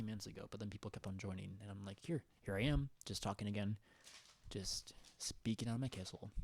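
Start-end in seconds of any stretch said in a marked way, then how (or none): 2.0-6.3 "kissel" said for fun; light goofy "kissel"; funny word kissel. Retold or imitated. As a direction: say "kissel" playfully as KISS-el. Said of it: "Why do you say it like that".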